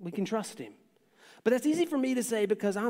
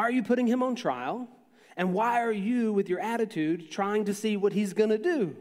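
exasperated Moses; 3 semitones higher than usual. Retold or imitated. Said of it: "you gotta feel Moses here".

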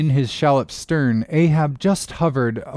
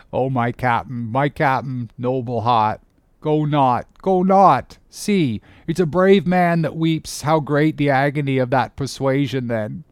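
understated pleading first mate; Starbuck; 2 semitones higher than usual. Acted. Tearful mate begs his captain to stay, in restrained entreaty. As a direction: plead earnestly, lifting on the repeated appeal.

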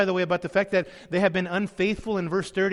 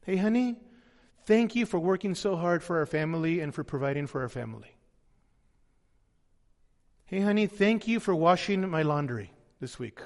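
tender thanks to spouse; 4 semitones lower, 4 dB quieter than usual. Pretend. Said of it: "practice affirmation with your spouse".

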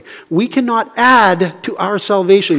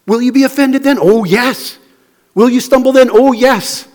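raised, loud challenge; Jesus; 7 semitones higher, 4 dB louder than usual. Acted. Jesus warning followers they will stumble, forceful challenge. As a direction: throw the question out and answer it forcefully. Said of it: "It's like he's saying to them".

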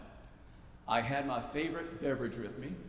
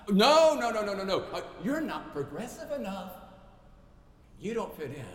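mock bully; 6 semitones higher, 7 dB louder than usual. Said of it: "Bullies who push people away".

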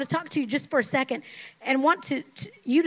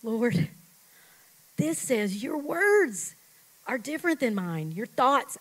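sample prayer. Shown as a demonstration. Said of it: "stop for a minute and say".

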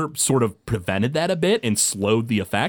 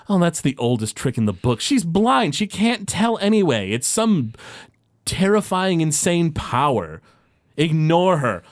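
lightly acted scoffing, rising higher on the insults; dismissive Glaris; 5 semitones higher than usual. Game master as Glaris brushing off a trick, dismissive. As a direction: wave it off with mild exasperation. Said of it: "Glaris kinda rolls his eyes".

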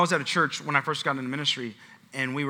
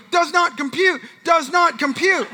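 high, loud robotic alarm; mock computer error, drawn out on the repeat; malfunctioning brain; 10 semitones higher, 5 dB louder, slower than usual. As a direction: jam up like an overloaded robot. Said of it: "your brain goes".

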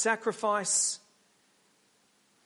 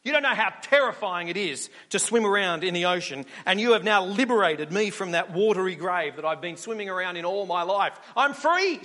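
gleeful fish; 4 dB louder than usual. Acted. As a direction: crow with relief like a freed fish. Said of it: "says the fish".

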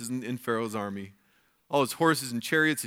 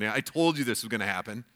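smug told-you-so; 3 semitones lower, faster than usual. Retold or imitated. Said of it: "That's always the good one".

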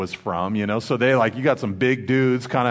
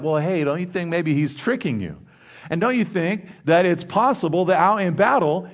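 suspicious commanders; 7 semitones higher than usual. Retold or imitated. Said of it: "they're like".

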